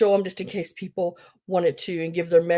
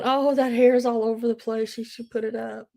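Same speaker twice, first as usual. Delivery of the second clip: lightly voiced mom, higher at first; imagine mom tutting at the screen; a hint of a fussing mother; mom commenting; 4 semitones higher than usual. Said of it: "I bet you my mom's sitting, probably watching, going".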